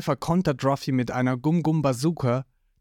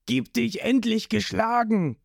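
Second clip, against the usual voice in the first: gruff Creek shout; 7 semitones higher than usual. Acted. Creek voiced in story.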